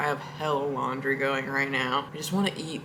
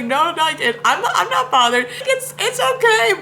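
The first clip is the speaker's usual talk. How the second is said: high reassuring squeak; 7 dB louder than usual. Retold or imitated. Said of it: "and I was like".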